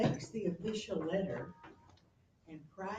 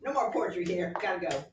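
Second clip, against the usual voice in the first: rushed Hamlet; 8 dB louder, faster than usual. Retold or imitated. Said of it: "he goes".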